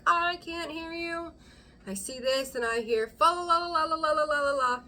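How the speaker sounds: put-on a kid with fingers in ears drowning you out; bratty kid taunt. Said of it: "kids stick their fingers in their ears and they're like".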